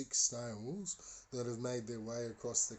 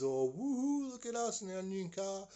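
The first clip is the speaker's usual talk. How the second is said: high, loud woohoo held up high; excited whoop; 9 semitones higher, 4 dB louder than usual. Retold or imitated. Parents call from their new car, excited high whoop. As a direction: imitate parents showing off, pitched way up.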